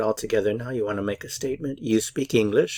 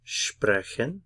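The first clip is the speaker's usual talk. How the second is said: sprechen with SPRE stressed, rising end; stress on first syllable. Shown as a demonstration. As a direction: lean on SPRE in sprechen, then let it rise. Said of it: "Stress on the first syllable".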